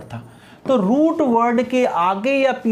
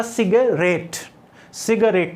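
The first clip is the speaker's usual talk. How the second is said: "सिगरेट" with the final रेट stressed; word demo, "सिगरेट" stressed on its last syllable; much slower than usual. Shown as a demonstration. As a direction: lean on the रेट ending of "सिगरेट". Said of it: "third syllable पर stress है".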